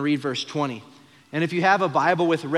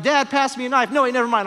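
high, loud hollering across the table; shouted dinner call; 8 semitones higher, 6 dB louder, faster than usual. Retold or imitated. Son yelling to dad across a chaotic dinner table, loud. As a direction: call out over the chaos, then change your mind.

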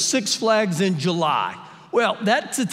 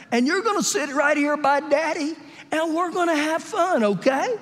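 coaxing dad; 6 semitones higher than usual. Retold or imitated. Dad to his crying daughter before the ride, coaxing. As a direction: coax a scared child along in a higher voice.

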